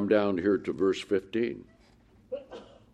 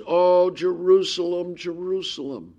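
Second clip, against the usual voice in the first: Jesus lamenting; 3 semitones higher than usual. Acted. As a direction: mourn over the city, then let it sink. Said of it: "he says".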